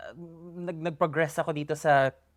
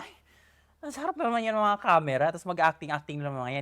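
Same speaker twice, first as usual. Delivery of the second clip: mocking outsiders; 3 semitones higher than usual. Creator imitates people who dismiss her work, in a mock scoffing voice. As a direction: lightly mimic a scoffing onlooker. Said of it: "Isipin lang ng mga tao na parang".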